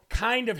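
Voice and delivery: "kind" and "of" each emphasized, then joined; stress on "kind of". Shown as a demonstration. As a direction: punch both words in "kind of". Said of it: "emphasize the word kind and the emphasize the word of".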